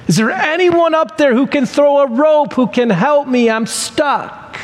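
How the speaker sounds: high-pitched plea, dropping off at the end; mock yelling for help. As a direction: act out calling up for rescue. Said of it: "he's yelling for hours".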